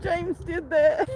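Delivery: slowed words through real laughter; barely getting it out through laughter; laughing. Real, not acted. Streamer reading chat, laughing helplessly.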